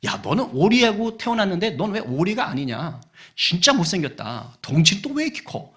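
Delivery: acted farm-animal taunts; lightly hammed-up jeering; mock teasing. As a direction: needle the odd one out. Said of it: "짐승들이 다 놀리는 거예요".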